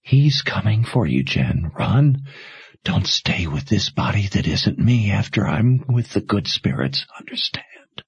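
lightly voiced dying mother, urgent and tender; a hint of a dying mother pleading; faintly voiced mother urging her to run.

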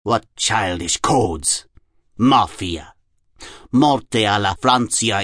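put-on slow German-accented incantation; deliberate German-accented recital with long pauses. A narrator's reading. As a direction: intone each name slowly in a German accent. Jung recites codes in character.

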